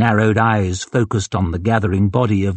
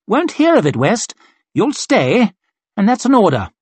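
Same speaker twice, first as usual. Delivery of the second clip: brisk mocking colonel; 10 semitones higher than usual. Colonel hurrying his captain, brisk and scornful. Glocta overrules West.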